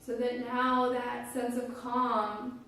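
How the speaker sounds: calm, unhurried guiding voice with long pauses; guided meditation. Real, not acted. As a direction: guide listeners gently into their breath, phrase by phrase.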